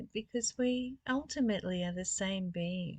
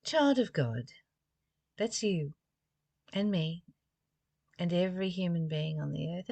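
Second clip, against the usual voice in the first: devotional reading. Acted. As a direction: read the passage as a tender address. Reads passage on forgiveness.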